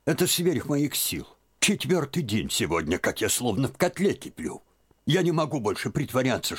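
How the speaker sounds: put-on high, rising old woman's cry; distressed old aunt. A narrator's reading. Aunt pleading with Liza, high and rising. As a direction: she can hold it in no longer.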